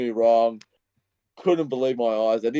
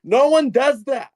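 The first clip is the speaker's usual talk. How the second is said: higher, near tears with disbelief; overwhelmed fan, voice climbing high; emotional disbelief; 8 semitones higher than usual. Retold or imitated. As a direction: fan relives an unlikely comeback win, choked up and excited. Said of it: "I started to get emotional".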